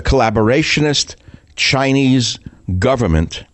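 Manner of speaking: "collaborationist Chinese government" with "Chinese" lifted high and each word set apart; emphasized phrase. Shown as a demonstration. Radio host stressing the key phrase for his listeners, words spaced and "Chinese" high. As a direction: hit "collaborationist", then "Chinese" high, then "government" falling, each with a small pause. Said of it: "my emphasis is on the word collaborationist Chinese government".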